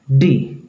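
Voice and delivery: डी with the tongue curled to the palate; short, hard डी, tongue tip up; hard retroflex D. Shown as a demonstration. Teacher shows the habitual Indian D, hard retroflex डी. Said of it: "इसको हम लोग बोलते हैं".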